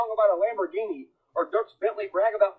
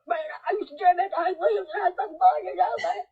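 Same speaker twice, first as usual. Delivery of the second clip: higher, fast bro voice; mock redneck fan reminiscing; imitated fan; 10 semitones higher, faster than usual. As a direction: play a hyped-up old fan. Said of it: "You'd be like".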